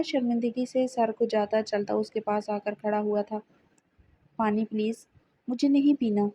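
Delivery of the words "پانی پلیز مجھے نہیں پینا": lightly voiced tearful protest; crying. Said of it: "میرم روتے ہوئے بولی تھی". (ہلکا سا روتا ہوا لہجہ)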